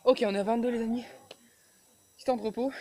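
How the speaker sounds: loud and winded between reps; doing push ups. Real, not acted. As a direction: call out the count after the push-ups.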